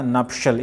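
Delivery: नपशल said as nup-shal; nuptial pronunciation. Shown as a demonstration. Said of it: "इसे नप टीएल नहीं पढ़ेंगे". (नपशल को नप-शल बोलें)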